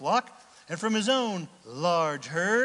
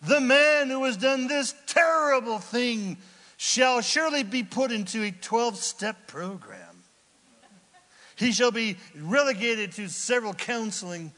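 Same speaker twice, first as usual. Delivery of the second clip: loud mock decree; hammed-up royal sentence; shouting; 4 semitones higher, 6 dB louder than usual. David pronouncing sentence on the rich man, loud.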